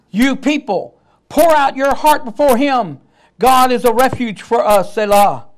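loud, ringing scripture reading; preacher's booming verse; loud proclamation. Real, not acted. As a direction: declare it to the whole church.

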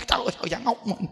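half-laughing groan; breathy laughing sigh; laughing exasperation. Real, not acted. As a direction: laugh it off in disbelief. Laughing at own story.

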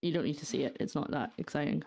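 ordinary talk, nothing marked

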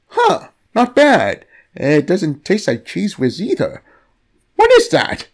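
pleasantly surprised. Acted. Captive tastes the god.

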